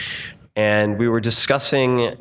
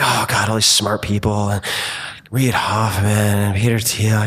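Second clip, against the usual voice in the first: creepy voice. Retold or imitated. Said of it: "I'm using my creepy voice also".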